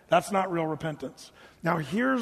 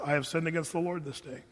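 softer, plain and honest, no drama; simple sincere confession; 3 semitones lower, 6 dB quieter than usual. Retold or imitated. David's quiet, sincere answer to Nathan the prophet. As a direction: say it quietly, just owning it. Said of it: "David says it like this".

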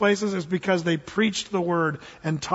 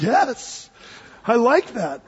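delighted reaction; much slower than usual. Retold or imitated. Acts his delighted reaction in car.

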